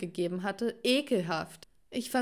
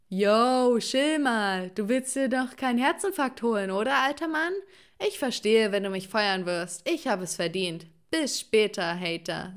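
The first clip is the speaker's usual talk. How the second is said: cheeky slang; 4 dB louder than usual. Acted. Cheeky reply to the angry principal.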